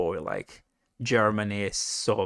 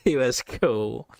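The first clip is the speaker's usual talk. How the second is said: laughing, slowed; slower than usual. Real, not acted. Repeats line, laughing and slow.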